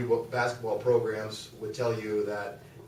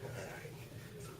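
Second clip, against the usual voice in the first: normal talking voice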